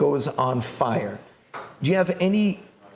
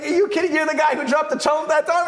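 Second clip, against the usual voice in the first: excited disbelief; 13 semitones higher than usual. Retold or imitated. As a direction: gasp it out like you've met a legend. Driver recognizes the famous student.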